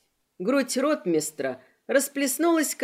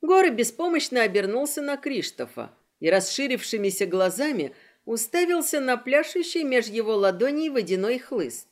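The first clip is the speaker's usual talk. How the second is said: plain reading voice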